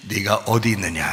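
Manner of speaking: lightly voiced God, low and grave; low, measured scriptural question; God calling Adam. God questioning hidden Adam, low-voiced role. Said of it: "하나님이 이르시되".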